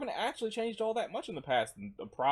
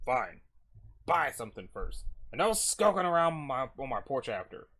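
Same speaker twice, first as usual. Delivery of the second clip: grudging night shopkeeper; 4 dB louder than usual. Acted. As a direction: give in reluctantly as the shop owner.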